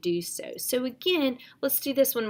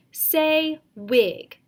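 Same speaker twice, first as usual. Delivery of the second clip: loud, higher teacher cue; firm teacher calling out a word; teacher prompt; 5 semitones higher, 6 dB louder than usual. Shown as a demonstration. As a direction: clear classroom prompt to a student. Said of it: "it could look a little bit like this".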